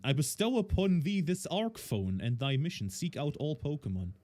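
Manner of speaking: a touch of archaic ceremony; solemn proclamation. Acted. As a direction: read it like a grand decree, mildly. Reads mysterious message in game.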